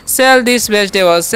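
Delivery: very slow English example; slow example sentence. Shown as a demonstration. Teacher modelling an English sentence for students, very slow. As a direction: say each word clearly and slowly. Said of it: "जैसे बोलेंगे".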